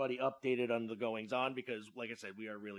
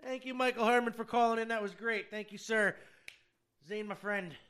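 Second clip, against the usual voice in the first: much higher and louder host announcement; radio host voice; 12 semitones higher, 9 dB louder than usual. Real, not acted. Radio host thanking guest.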